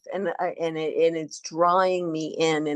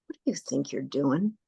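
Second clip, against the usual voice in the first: ego's voice. Retold or imitated. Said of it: "my ego gets in the way and it says".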